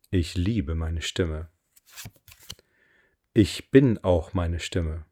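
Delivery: slow, deliberate affirmation voice; affirmation reading. Acted. Coach reads her voice affirmations for listeners to repeat, slow affirmation reading. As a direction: read each line with weight and pauses.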